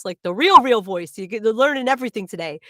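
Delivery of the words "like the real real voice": "real" pushed up and loud; "the real, real voice" with a punched "real"; stress on real. Real, not acted. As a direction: hit "real" hard with a rise. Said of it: "This is my real voice".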